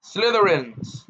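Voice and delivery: proud yell of the family name. A narrator's reading. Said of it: "yelled Gaunt".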